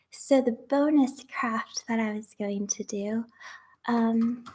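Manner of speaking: breathless whisper from standing; winded, pushing words out; out of breath. Real, not acted. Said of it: "out of breath just from standing".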